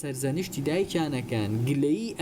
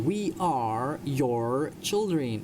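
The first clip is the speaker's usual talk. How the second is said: slow, deliberate sentence for learners; slow model reading; much slower than usual. Shown as a demonstration. Teacher reads a story sentence to English learners, slowly. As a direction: draw each word out for students.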